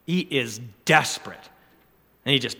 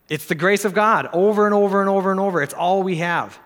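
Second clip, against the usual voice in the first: preaching at full force; 6 semitones higher, 4 dB louder than usual. Real, not acted. Preacher climaxes on grace.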